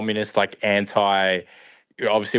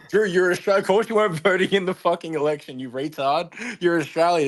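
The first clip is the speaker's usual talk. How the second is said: high, scornful mocking retort; mock exasperated crowd; 8 semitones higher than usual. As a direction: scoff at Drew like an annoyed crowd. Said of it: "everyone's like".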